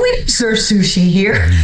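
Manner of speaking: laughing through a teasing line; laughing retort. Retold or imitated. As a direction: tease him and laugh at the end.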